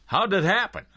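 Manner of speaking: shocked high question. Acted. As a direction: ask it high, stunned. Shocked at friend's death.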